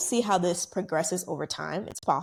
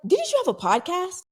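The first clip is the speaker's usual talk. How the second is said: higher, eager voice of a surprised fan; imitating the fan; 12 semitones higher than usual. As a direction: play the fan who just recognized her, high and bright with a rising question. Fan recognizes her at party.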